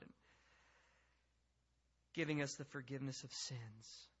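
earnest, measured prayer with long pauses. Real, not acted. Preacher asking God to teach the congregation, prayerful. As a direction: draw out the petitions, phrase by phrase.

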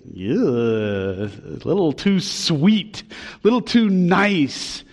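squirm at something sickly sweet; mock squeamishness. Pastor voicing unease at gushy Paul, mock-squeamish. Mocks discomfort at Paul's gushiness.

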